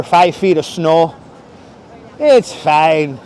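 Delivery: lightly voiced Midwestern local, drawn-out words; easygoing Wisconsin local. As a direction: play an unbothered Wisconsinite brushing it off. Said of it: "The people in Wisconsin are so freaking nice".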